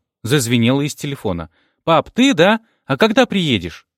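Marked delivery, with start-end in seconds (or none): 1.8-3.9 put-on high, eager little kid's voice; eager child. A narrator's reading. Young child on phone asking when dad's coming, high and eager. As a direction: voice a hopeful schoolchild asking for dad.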